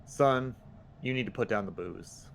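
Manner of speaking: folksy southern talking-to; southern accent. Acted. Player tells guard to put down the booze, southern accent. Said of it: "That was all said in a southern accent".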